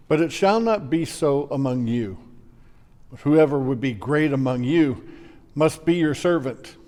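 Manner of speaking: ordinary talk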